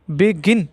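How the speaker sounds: "begin" with the weight on "gin"; stress on last syllable. Shown as a demonstration. Teacher shows students where stress falls, stressing "gin" in "begin". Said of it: "उसमें stress आ रहा है".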